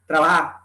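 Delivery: TRABAJAR ending on open A, J softened away; dropped final R. Shown as a demonstration. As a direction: leave the R off "trabajar". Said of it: "pérdida de las consonantes finales".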